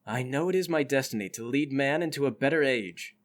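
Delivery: low, measured voice of destiny; solemn nano man. Acted. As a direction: intone it calmly as a perfect being.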